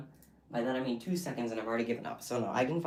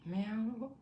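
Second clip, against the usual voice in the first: high meow, rising at the end; cat meow; 8 semitones higher, 4 dB quieter than usual. Acted. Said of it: "That was my impression of your cat".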